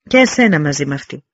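loud mocking yell with a wry grin; scornful shout at the offer; crooked-smile shout. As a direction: throw the insult down with a crooked smile. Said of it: "φώναξε ο Λεωνίδας με ένα στραβό χαμόγελο".

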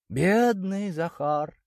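high, very slow, sorrowful; pitying sigh. A narrator's reading. Victoria sighs in pity for poor Zakhar. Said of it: "вздохнула Виктория".

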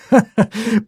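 high mocking laugh; a sharp, scornful burst of laughter; bitter laugh. A narrator's reading. Nikita laughing at his friends' accusation, high scornful laugh. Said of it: "Я рассмеялся".

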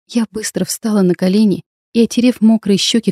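plain reading voice

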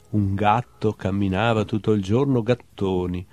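measured literary recital with lifted titles; poetry reading. Acted. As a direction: read short animal poems, letting each ending drop away. Reads own poems aloud. (lettura poetica recitata)

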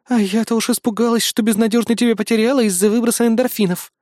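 put-on a touch of girlish relief; relieved assistant. Electronic helper relieved her boy still sees clearly.

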